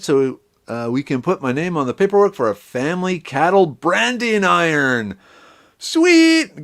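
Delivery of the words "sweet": delighted cry. Real, not acted. Reacting to good news.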